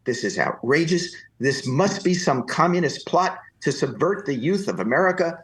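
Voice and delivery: high, indignant ranting citizen; mock indignant taxpayer rant; fake outraged taxpayer. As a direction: play the furious taxpayer. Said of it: "began to scream at this man".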